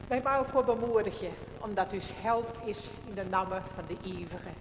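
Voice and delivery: solemn measured church greeting; liturgical blessing. Acted. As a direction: intone it like a pastor opening the service. Liturgical opening votum and greeting.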